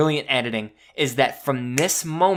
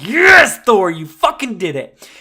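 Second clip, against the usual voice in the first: much higher, much louder yell of joy; triumphant cheer; 7 semitones higher, 11 dB louder than usual. Retold or imitated. Fan in the theater when Mjolnir hits Thanos, ecstatic shout. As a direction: explode with victory as if Thor just won.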